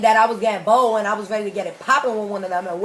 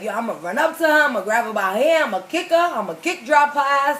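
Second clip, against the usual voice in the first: hyped-up plan; 4 semitones higher, 4 dB louder, faster than usual. Retold or imitated. Hyped plan to fight girl.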